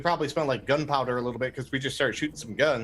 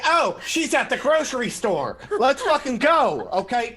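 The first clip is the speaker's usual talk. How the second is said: mock exasperated Evelyn; 8 semitones higher, 4 dB louder than usual. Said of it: "It's like".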